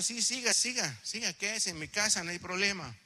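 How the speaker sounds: a hint of a friendly hostess inviting him in; welcoming woman.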